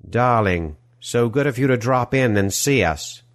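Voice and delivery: put-on smarmy European movie-villain accent; oily villain accent, gushing welcome; Die Hard villain accent. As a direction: greet them in an action-film villain's foreign accent. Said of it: "accent sounding like the villain of a Die Hard film".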